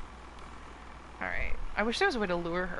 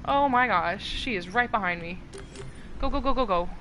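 being chased. Real, not acted. Chased by Chica.

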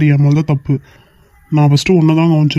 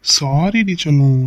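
slow, tender coaxing sorry; coaxing apology; much slower than usual. Acted. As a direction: drag it out sweetly to win her over. Husband coaxes angry wife. (மனைவியைச் சமாதானப்படுத்தும் கணவன், மெதுவான கெஞ்சல்)

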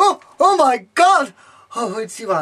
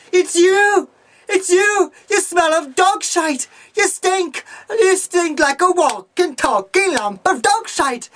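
higher, indignant yelling; accusing shout; 4 semitones higher than usual. Acted. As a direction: hurl the accusation at her.

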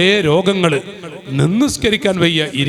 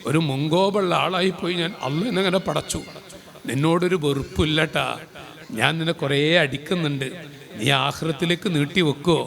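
quiet remorseful plea; 5 semitones lower, 8 dB quieter than usual. Retold or imitated. Husband pleads forgiveness, retold.

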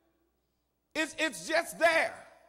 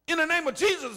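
play-acted healing prayer; 3 semitones higher, faster than usual. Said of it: "that's my little actor right there".

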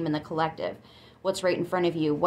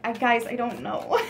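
mock Southern twang through a laugh; imitated Southern accent; 3 semitones higher than usual. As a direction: retell it in a light Southern accent. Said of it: "I still had her accent".

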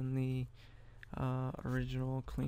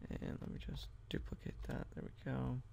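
whispered aside to himself; breathy whisper while working; 8 dB quieter than usual. Real, not acted. Muttering to self while editing.

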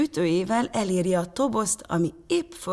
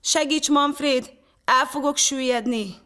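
high, raised, pleading voice; frightened cry for help; 8 semitones higher, 4 dB louder than usual. A narrator's reading. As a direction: plead desperately to be rescued. Boy on cracking ice begs help.

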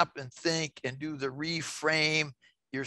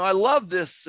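excited, louder burst; getting loud; 3 semitones higher, 5 dB louder than usual. Real, not acted. Presenter excited about this piece, getting loud. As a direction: let enthusiasm push the volume up. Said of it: "I'm getting loud".

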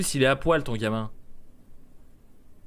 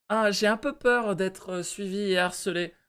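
lightly voiced timid worker, higher and slow; worried employee voice; 5 semitones higher, slower than usual. Employee confiding fear to boss, mildly timid high voice. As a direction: voice a mild worry, slow and raised in pitch.

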